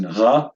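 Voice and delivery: ra with the R from the back of the throat; guttural R. Shown as a demonstration. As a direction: make the R of ra in the throat. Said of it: "pronounce it in the back of the throat".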